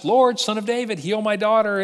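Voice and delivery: a disciple imitating the woman's cries; mocking her cry. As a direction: mimic her calling out from behind. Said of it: "Can you not hear her?".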